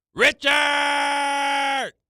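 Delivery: shrill, very high, gargling shout. Asked to record it again, yelling the name with a gargle. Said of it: "Is Bart yelling, "Richard"? Do it again".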